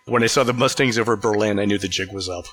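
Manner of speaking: a hint of a German accent, barely there; lightly voiced German general; faint mock German accent; terrible German accent. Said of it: "That was a terrible German accent".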